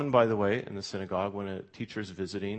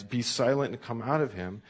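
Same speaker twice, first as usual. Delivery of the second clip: firm, louder rebuke; a measured stern order, not a full shout; raised-voice command; 4 dB louder than usual. Acted. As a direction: command the spirit to leave. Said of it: "with a raised voice commands".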